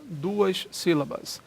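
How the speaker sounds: "Duas sílabas" drawn out slowly, each syllable held; teacher slowing "Duas sílabas" for emphasis; slow, spelled-out count. Shown as a demonstration. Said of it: "aqui eu tenho mais de uma sílaba".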